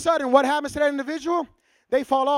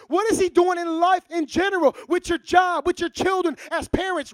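forceful preaching; 3 semitones higher than usual. Acted. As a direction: press each question harder, raised and ringing.

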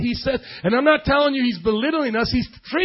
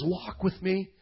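softer, lower, tender voice; gentle invitation; 3 semitones lower, 9 dB quieter, slower than usual. Acted. The Spirit to a believer, gently inviting. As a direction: invite quietly, like a kind guide.

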